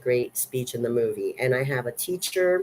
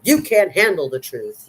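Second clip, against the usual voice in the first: louder, higher movie-quote outburst; Jack Nicholson; 4 semitones higher, 5 dB louder than usual. Retold or imitated. Film fan quoting the big courtroom speech, mock outburst. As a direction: quote the famous line with force. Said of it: "the big famous quote from that monologue".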